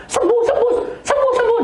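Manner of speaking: mock demanding prayer. Mocking a pushy prayer for healing, high chant.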